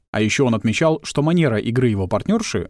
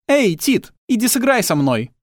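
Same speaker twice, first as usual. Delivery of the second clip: calling out; 10 semitones higher than usual. Acted. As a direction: shout to Tit among the trees. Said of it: "крикнула".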